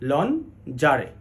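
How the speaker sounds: lon, pause, jare; lingerie broken into syllables. Shown as a demonstration. Teacher repeating the correct form, lingerie in separated parts. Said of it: "এটির সঠিক উচ্চারণ হলো".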